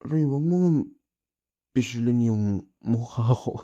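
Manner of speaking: high, loud, laughing whine; whiny protest. Acted. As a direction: whine through the squeeze, half laughing. Girlfriend squeezing his face.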